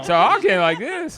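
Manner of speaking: put-on Australian accent. Shown as a demonstration. Showing off his made-up Australian accent, slow and hammed-up. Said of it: "My Australian accent".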